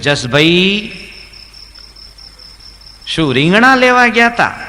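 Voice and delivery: loud and high, calling across the market; deaf man shouting. Retold or imitated. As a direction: yell the question like a half-deaf man. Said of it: "હંમેશા જોરથી જ બોલવાનું".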